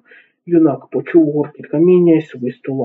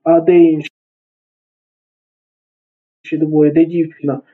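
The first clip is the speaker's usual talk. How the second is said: крик знизу; 2 semitones higher than usual. A narrator's reading. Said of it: "чоловік унизу закричав".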